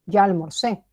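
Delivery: "Ya almorcé" stated as an affirmation; statement intonation. Shown as a demonstration. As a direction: say "Ya almorcé" as a plain declaration, no questioning lift. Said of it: "puede ser entonación de afirmación".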